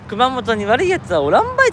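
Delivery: hammed-up Kyushu dialect, punching ばい; mock Kyushu dialect. Streamer replays his own slip to viewers in a loud mock Kyushu dialect. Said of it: "とか言っちゃった".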